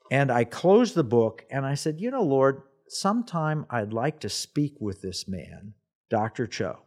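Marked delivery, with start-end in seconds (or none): 2.0-6.8 retold prayer. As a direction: speak quietly to God, unhurried. Retold private prayer to God.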